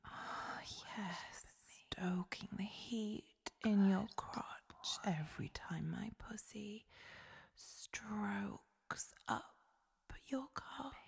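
whispered domineering goddess. Acted. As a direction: purr it like a commanding goddess. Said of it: "My heavenly voice".

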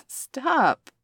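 loud startled stop; sharp stop. Acted. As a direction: snap it out to halt him. Pushing away the rough puppy.

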